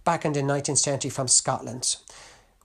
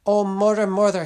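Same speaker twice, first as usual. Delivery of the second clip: a touch of crying, higher and louder; 5 semitones higher, 7 dB louder than usual. Acted. Son weeps to his mother in the alley, mild cry. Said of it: "he cried".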